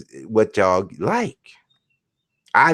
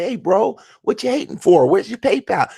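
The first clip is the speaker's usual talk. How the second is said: mock friendly; 10 semitones higher than usual. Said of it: "I'd be like".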